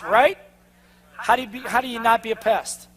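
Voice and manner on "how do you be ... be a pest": ordinary delivery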